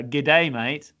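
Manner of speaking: coaching a guest in an Australian accent. Shown as a demonstration. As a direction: demo Australian "Good day, mate" with "day" rising, "mate" as "mite". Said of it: "Say it in Australia".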